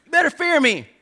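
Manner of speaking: very high, loud Southern warning; Southern accent. Acted. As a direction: threaten like a Southern parent laying down the law. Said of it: "I would say it with a Southern accent".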